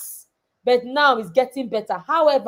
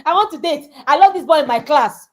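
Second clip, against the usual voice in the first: put-on lovestruck girl; 3 semitones higher, 5 dB louder, faster than usual. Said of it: "that's why I say don't date".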